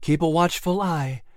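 a hint of a wary ship's cat giving a warning. Clary warns the others on the ship, lightly voiced and wary. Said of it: "Clary warned".

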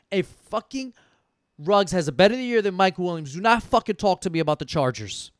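pressing the friend to accept the bet; insistent. Real, not acted. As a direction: drive the terms home. Restating the bet to Steven.

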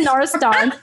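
Narastant with open "ah" at the end, "nar-uh-STAHNT"; French pronunciation. Shown as a demonstration. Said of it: "if you're French".

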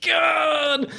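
slow, pained groan; doubled-over groan; groaning man. Retold or imitated. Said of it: "the guy doubles over like".

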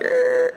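high, thin creak; squeaky high creak; creaky door noise. Retold or imitated. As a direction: imitate a door creaking open. Imitates the creaking door again.

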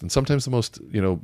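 normal talking voice

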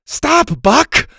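high, loud sharp order; angry command. A narrator's reading. Bo stopping his T-Rex, angry order. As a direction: snap the command at his dino. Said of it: "Bo said angrily".

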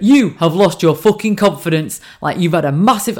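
lightly voiced Northern husband; mild Northern accent, blunt telling-off; Northern husband impression. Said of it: "This is how he talks. He's Northern".

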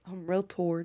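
slow mock-dialect "tard" for tired; playful country "tard", one syllable; imitating mamaw's dialect. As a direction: drag it out, with "tard" rhyming with "hard". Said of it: "she used to say".

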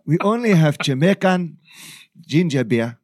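Black Panther voice. Retold or imitated. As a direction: regal Wakandan king voice. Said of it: "you sound exactly like him".

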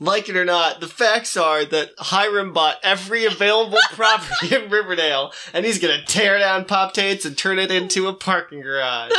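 hammed-up announcement with laughter creeping in; villain monologue. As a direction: proclaim it like a gloating villain, amused. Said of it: "villain monologues at them".

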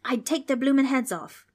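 loud, high Australian bravado; Australian holler. A narrator's reading. Darby threatens the demons, Australian holler. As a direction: boast loudly in an Australian accent. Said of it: "Darby hollered".

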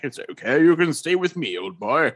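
posh English. Retold or imitated. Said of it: "And he's like".

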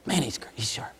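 hushed admiring whisper; mock admiring whisper; impressed whisper. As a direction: whisper like he's a celebrity. Mocking awed whisper.

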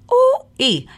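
a sudden squeal way up high; teasing high ooh-ee; high-pitched ooh squeal. Real, not acted. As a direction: squeal it out, impressed with yourself. Reacts to her own post.

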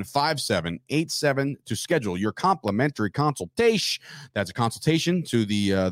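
measured, tidy ad-read voice; sponsor ad read. Acted. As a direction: read the sponsor spot cleanly. Host reads sponsor ad.

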